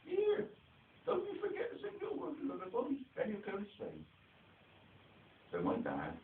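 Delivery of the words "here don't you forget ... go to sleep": high mock call up the stairs from another room; calling upstairs. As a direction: sing it up the stairwell, much higher. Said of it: "And she'd call up the stairs".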